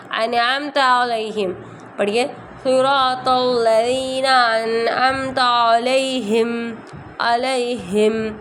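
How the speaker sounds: slow, drawn-out tajweed chant; slow Quran recitation. Shown as a demonstration. Teacher reciting slowly for students to follow, chanted. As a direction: recite it slowly for the class to repeat.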